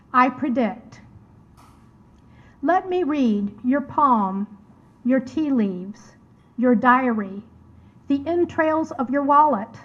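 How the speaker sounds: deliberate poetry reading, a pause after every image; poem recitation. Acted. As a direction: read it as verse, spacing out each item. Reads her poem aloud.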